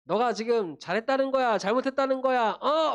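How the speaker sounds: mock scolding that climbs to a high "어?"; angry mother. Mother rebuking her son for talking back, mock angry. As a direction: demand an answer like a cross mom, building in pitch. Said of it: "엄마가 화가 날 만도 하죠".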